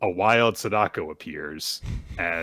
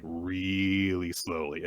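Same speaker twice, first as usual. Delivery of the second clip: drawn-out slow words; 6 dB quieter, much slower than usual. Shown as a demonstration. Drawing out how he says it.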